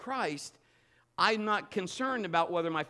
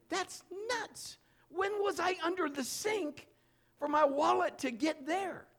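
much higher, mock-baffled thinking voice; incredulous inner voice; 11 semitones higher than usual. Thinking about the wallet under the sink, high and baffled. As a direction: play your own stunned brain, pitched way up.

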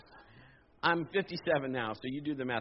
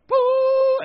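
sudden loud boo, much higher; mock scare shout; 14 dB louder than usual. Preacher startles the church with a ghostly boo. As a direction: jump out with a huge boo.

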